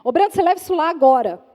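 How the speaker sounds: brisk, loud command to a husband; imperative order. Acted. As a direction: order him to do it now, quick and firm. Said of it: "bem no imperativo". (ordem seca no imperativo)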